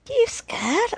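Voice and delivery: very high, rising jeer; taunting. A narrator's reading. Kids on the stoop mocking the boy, taunting. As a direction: needle him with a high-pitched dare.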